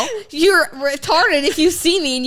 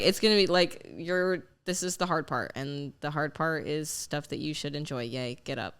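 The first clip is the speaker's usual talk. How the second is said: fading self pep talk; 8 semitones lower, 11 dB quieter than usual. Retold or imitated. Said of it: "I'm just like".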